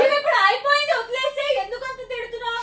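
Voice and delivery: high, loud plea to drop it; loud pleading. Acted. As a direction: shout over him to let it go. Girlfriend pleading over his yelling. (గట్టిగా బతిమాలుతూ)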